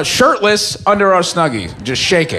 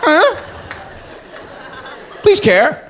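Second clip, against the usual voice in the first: much higher, crying please; wailing plea; 11 semitones higher than usual. Retold or imitated. Begging a friend to care, high crying plea. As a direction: beg through sobs.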